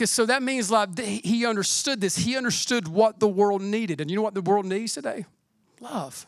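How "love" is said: normal talking voice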